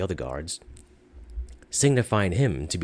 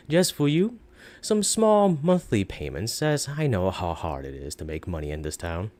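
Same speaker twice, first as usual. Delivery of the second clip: sly sales pitch. Acted. Shopkeeper pitching the ring to a customer, sly and coaxing. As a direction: coax the buyer into the deal.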